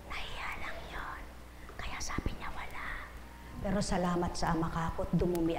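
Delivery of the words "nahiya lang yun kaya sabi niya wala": very soft confidential whisper. Retold or imitated. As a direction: whisper an explanation discreetly to your neighbour. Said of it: "Bumulong ako sa katabi ko". (pabulong na paliwanag)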